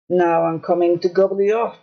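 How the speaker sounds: low, menacing troll. Acted. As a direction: threaten like a hungry troll. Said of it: "said the troll".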